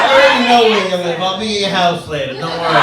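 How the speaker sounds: playful fake threat; mock creepy threat. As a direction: tease the ladies with a stalker threat. Joking creepy threat to audience.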